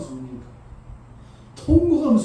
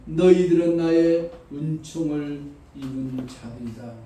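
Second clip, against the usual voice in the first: voice of God; slower than usual. Acted. God speaking to the mourners, slow and solemn. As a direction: speak as God, calm and weighty. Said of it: "하나님이 뭐라 그러느냐".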